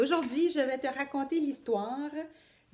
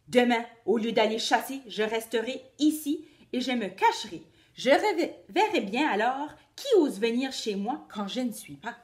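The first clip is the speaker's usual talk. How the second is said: lightly voiced grumbling wolf; scheming wolf; 6 dB louder than usual. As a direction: plot like a cross wolf. Wolf plots revenge.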